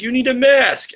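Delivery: high, prim mock voice; squeaky high "You need a mask" in a mock voice; mocking the staffer. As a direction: parody the officious librarian.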